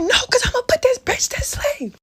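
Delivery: lightly voiced high best friend; friend's fierce reply. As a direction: voice the friend who won't let go. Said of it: "She like".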